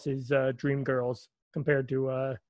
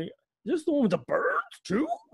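high, leaping octave rise on too. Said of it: "just go up an octave at the end".

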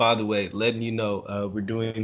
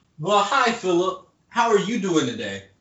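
overly nice, sing-song, fake-friendly tone; 9 semitones higher than usual. Showing how a normal person greets someone: mock polite greeting. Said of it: "That's what a normal person sounds like".

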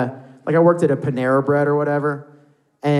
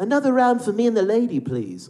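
affected put-on British accent, sing-song; 8 semitones higher than usual. Retelling a guy on a date trying to be cute: affected British accent. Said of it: "affecting this, like, British accent".

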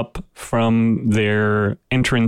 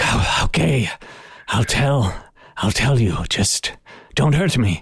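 squealing, pleading creature voice. Voicing a captured creature giving in under threat: squealing, pleading captive creature. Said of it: "lets out a little squeal".

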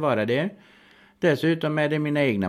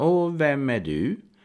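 put-on steady, unruffled, calm, slow delivery. Retelling an encounter with an irritated man, retelling a calm question. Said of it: "frågade lugnt bara".

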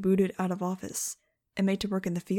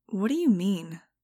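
suspicious, distrustful, wary tone. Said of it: "I said suspiciously".

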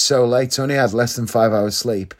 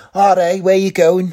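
high-pitched, stereotypical put-on Liverpool Scouse accent; 7 semitones higher, 4 dB louder than usual. Talking about accent impersonations, demonstrating a scouse accent impression. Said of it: "impersonate a Scouse accent".

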